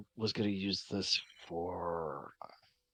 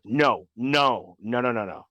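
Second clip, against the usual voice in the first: hurried denial; 2 semitones lower, 4 dB louder than usual. Acted. Character hurriedly denies being a god.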